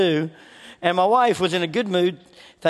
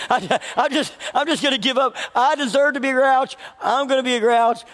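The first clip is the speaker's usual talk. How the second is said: higher, hammed-up sulky declaration; mock grouchy defiance; 5 semitones higher than usual. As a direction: pretend to dig in your heels like a grumpy kid. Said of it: "I'm like".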